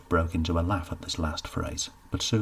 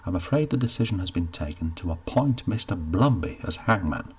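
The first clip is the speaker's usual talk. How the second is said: impatient; 3 dB louder than usual. Acted. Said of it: "Bambridge sounded impatient now".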